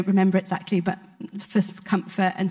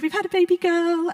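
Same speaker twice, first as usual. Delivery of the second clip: retold news with a lift of joy, pitched higher; joyful news; 9 semitones higher than usual. Friends phoning at night with birth news, joyful and higher. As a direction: relay the birth news brightly.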